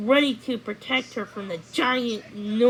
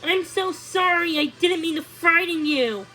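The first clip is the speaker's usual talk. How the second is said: higher, earnest apology; a hint of a young prince saying sorry; lightly voiced prince, anxious to make amends; apologetic prince; 8 semitones higher, 5 dB louder than usual. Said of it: "Cornelius apologized".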